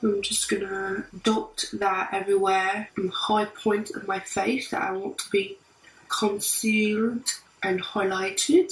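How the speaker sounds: put-on amateur British accent, chatty tutorial style; casual imitation British accent, trying your best. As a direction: attempt a British accent while hosting a makeup tutorial. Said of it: "doing the entire tutorial in a British accent".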